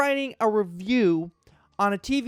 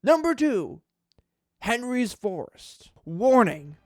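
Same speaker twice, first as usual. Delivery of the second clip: dramatic reading. Acted. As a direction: grandly read review voice, mock-serious. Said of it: "a dramatic reading of this guy's review".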